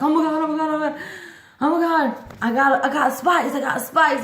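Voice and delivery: high, giddy retold shrieking; excited squeal. Phoning her dude about the spikes, retold excited squealing. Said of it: "and I was like".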